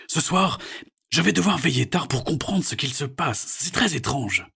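father plans to stay up; puzzled dad voice. A narrator's reading. Father tells daughter. (voix de papa perplexe)

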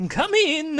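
high, loud call to the door; carpenter character voice. Acted. Carpenter answering a knock at the door, high calling voice. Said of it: "said the carpenter".

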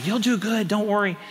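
high, gentle encouragement; retold reassurance. Preacher retells encouraging a nervous lady before her test, gently reassuring.

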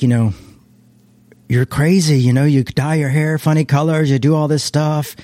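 a loose imitation of an Irish friend's scolding; Irish accent. Dad's friend doubts the youth pastor plan, loose Irish accent. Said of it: "my dad had this Irish friend".

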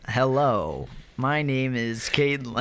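flat, even robot voice. Pretend. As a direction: say it like a monotone robot. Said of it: "the robot voice".

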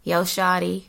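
attempted American accent; hammy go at an American accent. Shown as a demonstration. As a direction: try a casual American accent. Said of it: "my best American accent".

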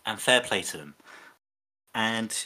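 ordinary talk, nothing marked

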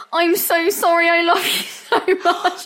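high, slowed, laughing apology; gushing apology. Retold or imitated. Drunk girlfriend gushing sorry to boyfriend, high and giggly. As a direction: gush it out sweetly, high. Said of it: "And I was like".

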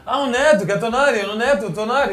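imitated fan call. Player imitates fans spotting him, calling out with amusement. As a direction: mimic fans exclaiming over a player. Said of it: "Ο κάποιος".

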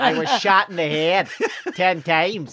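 exaggerated Belfast vowels; Belfast accent. Shown as a demonstration. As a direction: put on a broad Belfast accent. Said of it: "Belfast is more kinda like that".

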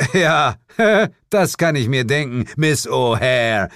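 Miss O'Hare slowed and leaned on with a mocking laugh; stressed name. Hero mocking the witch's name, stressed. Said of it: "Ich betonte ihren Namen".

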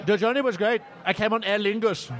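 high, gushing put-on voice with an Irish lilt; Chris Yul-Jensen. Host as Danish guest gushing about his Aer Lingus flight, high put-on voice. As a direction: ham up the delighted Danish-Irish rider. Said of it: "turn a bit of the Irish accent on".

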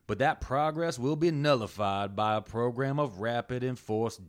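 a light put-on Southern drawl, reading an old statement; understated Southern politician accent on a formal statement. Shown as a demonstration. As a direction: read it like an old Southern senator, with a hint of Southern drawl. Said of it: "I'm gonna read this in my best Southern drawl I can".

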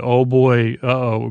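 sheepish uh-oh with a grin; mock oh-boy dread. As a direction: sell the grin that says trouble is coming. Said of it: "Riker kinda has a grin, but, like, an".

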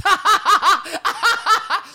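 high loud laugh that breaks out; real high laugh; burst of laughter. Real, not acted. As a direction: crack up at the excuse. Laughing at Mariana's excuse.

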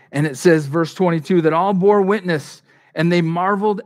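loud, rising preacher's call; loud pulpit proclamation; preaching loud. Acted. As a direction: lift the verse out to the crowd. Preacher building to the text.

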